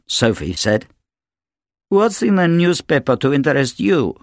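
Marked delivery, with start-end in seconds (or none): 1.9-4.2 higher, haughty demand. A narrator's reading. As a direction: challenge the daughter sharply. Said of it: "Natasha demanded".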